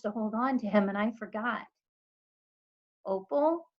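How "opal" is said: calling out. A narrator's reading. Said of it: "I heard the preacher call".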